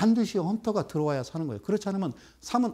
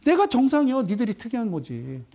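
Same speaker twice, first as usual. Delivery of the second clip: indignant retort; 2 semitones higher, 3 dB louder than usual. Real, not acted. 비판하는 시청자들에게 항의하며 크게 외치듯. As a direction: shout back at the critics. Insisting he is the normal one.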